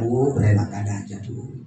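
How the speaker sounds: low, softened words of condolence; mock consoling. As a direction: play a visitor gently comforting a widow. Acts out visitor consoling the widow. (menghibur janda dengan suara rendah)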